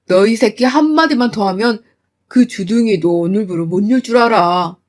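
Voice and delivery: father threatening the husband; menacing threat. Acted. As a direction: silence him with a threat. Father threatens son-in-law.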